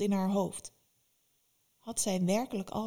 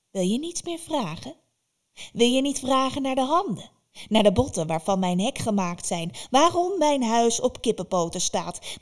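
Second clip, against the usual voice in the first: higher, louder teasing crone; taunting witch; 4 semitones higher, 5 dB louder than usual. Acted. Baba Yaga taunts Vasilisa to ask more, loud and teasing. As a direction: tempt her with secrets.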